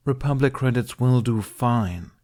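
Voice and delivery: insistent. Acted. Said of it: "he insisted".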